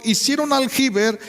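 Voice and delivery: full preaching force; voice of the Lord. Acted. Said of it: "pero dice el Señor".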